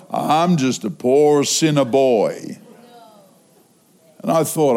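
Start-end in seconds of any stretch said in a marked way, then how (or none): 0.1-2.6 slow, low mimicry of a self-pitying man; self-deprecating churchgoer. Scolded man giving the same reply next Sunday, self-deprecating. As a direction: drag the humble line out low.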